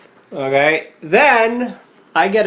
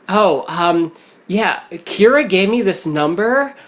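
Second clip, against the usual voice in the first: lightly imitated Valley Girl; a hint of giddy Valley Girl on the phone; mock Valley Girl caller, only slightly put on; Valley Girl accent; 4 semitones higher than usual. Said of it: "it's like that Valley Girl accent too".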